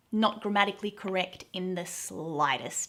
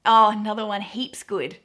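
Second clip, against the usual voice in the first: louder, gushing "Oh, I liked it heaps"; enthusiastic aussie slang; 7 dB louder than usual. Retold or imitated. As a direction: rave about it, punching "heaps". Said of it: "If you really like something".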